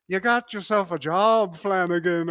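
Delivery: mock Irish boss's voice; Irish accent. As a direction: imitate an Irishman handing out a job. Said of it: "And the guy's like".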